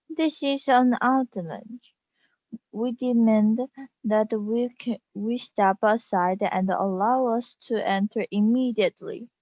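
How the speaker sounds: a hint of a regal lady making demands; Queen's voice. Kid possessed by the Queen demands entry, lightly regal. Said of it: "This isn't really me talking".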